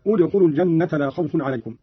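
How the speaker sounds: "ادخلوا" opening with u, udkhulu; damma start. Shown as a demonstration. Teacher demonstrating a fresh start, "ادخلوا" begun with damma. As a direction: begin the phrase on the u of "ادخلوا". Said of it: "والبدء بالضم عندما نبتدئ كلمة".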